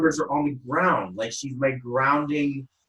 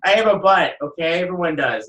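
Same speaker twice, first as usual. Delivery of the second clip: mock-indignant retort; 5 semitones higher, 4 dB louder than usual. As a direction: defend yourself with hammed-up offense. Retorting to being teased.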